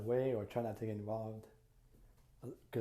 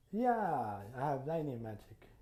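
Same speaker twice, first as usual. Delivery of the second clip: evasive agreement; slower than usual. Retold or imitated. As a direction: retell a mildly hedging yes. Retold evasive answer about his magic.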